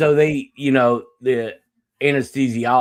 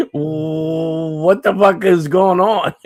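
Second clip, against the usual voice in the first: laughing disbelief; 4 semitones higher, slower than usual. Retold or imitated. Shocked at gag ball, laughing.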